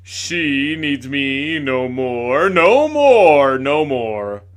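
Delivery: loud, slow hammed-up choking lament. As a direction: wail it like a ham tragedian. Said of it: "in a choking voice".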